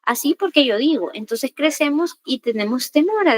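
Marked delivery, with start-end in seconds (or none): 0.0-1.1 scolding parent. Retold or imitated. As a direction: imitate a parent laying down the law, mildly. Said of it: "no se nos gritaba o se nos vulneraba". (regaño de padres, imitado sin gritar)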